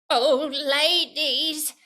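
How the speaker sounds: slow, drawn-out, loud put-on voice; crazy character voice. Shown as a demonstration. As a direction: ham up a silly character. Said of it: "crazy voices, all kinds of voices".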